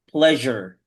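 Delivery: "pleasure" with a buzzing Z-like middle, not S; pronunciation demo. Shown as a demonstration. Teacher shows students how to read the word, "pleasure" with a Z-like sound. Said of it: "It's like Z, but not S".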